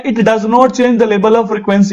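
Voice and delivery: very slow, each word spaced out like dictation; dictated model answer. Shown as a demonstration. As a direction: spell the definition out for the class. Dictates the punch line.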